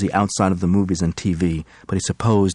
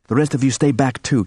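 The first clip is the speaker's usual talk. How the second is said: sharp, higher snapped warning; 6 semitones higher than usual. Acted. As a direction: snap the order at them. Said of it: "Kendra snapped".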